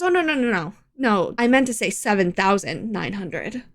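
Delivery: calm, matter-of-fact correction; calmly. Retold or imitated. Cashier calmly correcting the bill, mildly imitated. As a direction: break the bad news gently. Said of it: "Just so calmly".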